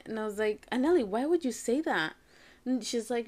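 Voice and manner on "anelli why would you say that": higher-pitched reproachful question; exasperated mom calling out a remark; retold dismay. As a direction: ask her in acted disbelief. Mother challenges daughter's remark.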